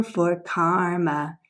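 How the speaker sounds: slow, careful reading; slow reading aloud. Shown as a demonstration. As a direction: read it slowly for the kids. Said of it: "let's try again".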